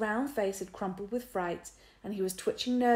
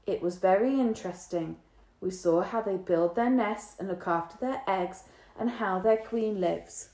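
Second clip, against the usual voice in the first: even, rote recitation; lightly voiced girl reciting by rote; steady reciting voice; 5 dB louder than usual. A narrator's reading. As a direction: recite it like a memorised lesson. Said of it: "that steady reciting voice again".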